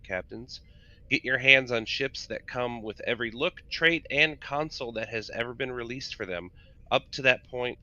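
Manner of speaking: promo announcer read. Acted. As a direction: sell it like a game ad spot. Reads the sale announcement.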